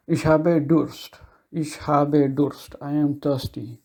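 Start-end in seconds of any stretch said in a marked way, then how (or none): 0.1-1.2 slow, careful Ich habe Durst, each word clear; slow demo. Shown as a demonstration. Teacher slowly models Ich habe Durst for students. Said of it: "if you want to repeat it". 1.5-2.8 slow, careful Ich habe Durst, each word clear; slow demo. Shown as a demonstration. Teacher slowly repeats Ich habe Durst for students. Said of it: "if you want to repeat it".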